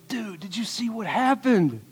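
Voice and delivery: excited disciple. Acted. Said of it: "I don't know if they talk like that".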